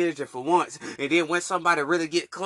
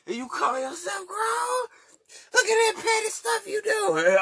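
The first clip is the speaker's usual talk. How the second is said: laughing. Real, not acted. Mocking grown men online.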